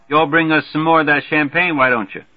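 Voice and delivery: put-on high, loud, hearty good-ol'-boy; brash Major Marvey. Marvey hollering a greeting to the newcomer, brash and hearty. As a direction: boom the welcome like a glad-hander.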